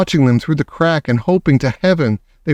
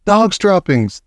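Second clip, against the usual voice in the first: shouting; 6 semitones higher, slower than usual. A narrator's reading. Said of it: "they shouted".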